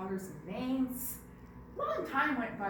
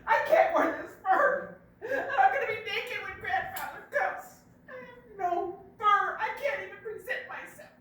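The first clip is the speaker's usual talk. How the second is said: loud bear protest; 8 semitones higher, 9 dB louder than usual. Acted. Bear protesting to Monkey about his shrunken fur. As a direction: insist he said as quick as a wink.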